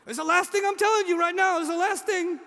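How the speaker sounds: hammed-up promise that this is really the end; mock final promise.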